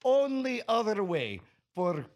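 slow mock Russian accent; hammy Russian henchman accent. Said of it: "Russian henchman".

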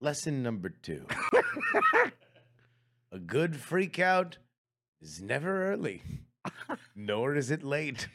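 slow, hushed wise-master delivery; solemn sage voice. Pretend. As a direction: intone it like a mock guru. Mock-wise teacher delivering a lesson.

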